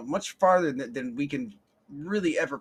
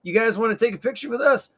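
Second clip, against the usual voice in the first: put-on friendly college kids; 8 semitones higher, 7 dB louder than usual. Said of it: "they're like".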